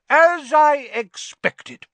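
very high, loud smug aunt; Aunt Marge voice. A narrator's reading. Aunt gloating at Harry, very high and loud.

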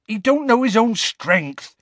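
high, insistent earnest defence. A narrator's reading. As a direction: plead his case sincerely. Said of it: "said Hagrid earnestly".

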